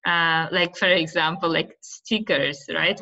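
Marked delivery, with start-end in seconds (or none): 1.8-2.6 "stickers" with a long ee in the first syllable, like "steekers"; Uzbek-Russian pronunciation. Shown as a demonstration. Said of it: "We say that in, in, uh, Uzbek or Russian".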